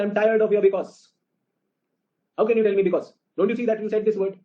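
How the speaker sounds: high-pitched, fed-up retort, acted out; angry wife. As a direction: imitate an exasperated wife cutting off excuses. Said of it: "my wife is very angry with me".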